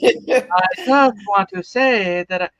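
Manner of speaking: slow, stretched-out liquid imitation; lava lamp voice. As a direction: ooze the words like a lava lamp. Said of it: "because it goes like this".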